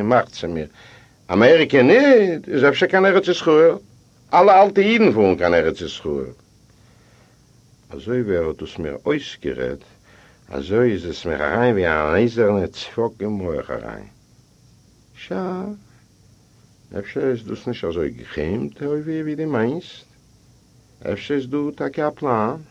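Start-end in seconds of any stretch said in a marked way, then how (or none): 1.3-6.3 put-on higher and louder, a scoffing old man; voiced old man. Old man brushing off the narrator, scoffing. 15.1-22.6 soft confiding voice. Acted. Character speaks gently, confidingly.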